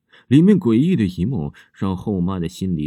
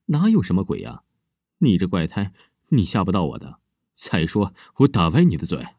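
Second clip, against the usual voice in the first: vicious. Acted. Stepmother threatens the girl, vicious and fierce. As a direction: spit out a threat to hide your fear. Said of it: "后妈恶狠狠地说".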